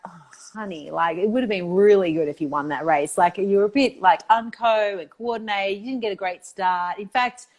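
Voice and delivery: a hint of a sugary but critical mum; lightly voiced disappointed parent talking to her child; mock critical parent. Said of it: "would you ever say that to a seven-year-old".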